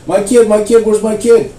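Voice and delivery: high, loud panicked cry; frantic mother. Retold or imitated. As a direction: call out like a mother who lost her child. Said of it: "She's frantic".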